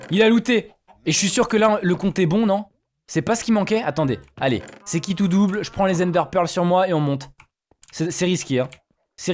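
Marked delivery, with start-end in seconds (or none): 0.1-3.8 excited. Real, not acted. Excited when Enderman drops loot.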